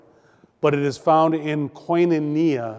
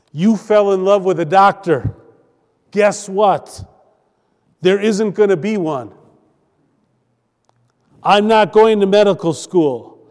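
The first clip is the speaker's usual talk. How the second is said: emphatic declaration; 4 semitones higher, 8 dB louder than usual. Acted. Declaring his calling to girlfriend.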